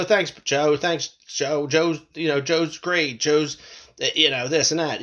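mock grateful thanks, dripping irony; sarcastic praise. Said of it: "being sarcastic about it".

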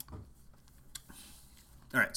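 whispered under the breath. Real, not acted. Late at night with roommate asleep, whispered restart. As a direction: whisper it so the roommate keeps sleeping. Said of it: "I'm trying not to wake my roommate up".

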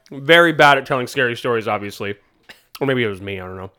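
talking through a mouthful of Skittles; chewing candy while talking; mouth full. Real, not acted. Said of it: "Sorry, I'm eating Skittles".

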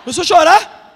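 exasperated exclamation. Real, not acted. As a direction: throw it out with mock exasperation. Comic exasperated remark.

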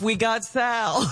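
shouting. Real, not acted. Mocking ad read, shouted.

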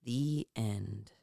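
low whispered sign-off; hushed story ending. Acted. Storyteller closing a spooky tale, hushed whisper.

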